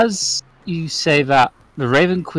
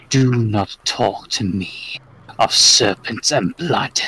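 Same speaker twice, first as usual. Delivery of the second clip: slow, measured command from a goddess; lightly voiced dark queen, words spaced out; Raven Queen; 2 semitones lower, slower than usual. Raven Queen warning the other god, slow and commanding.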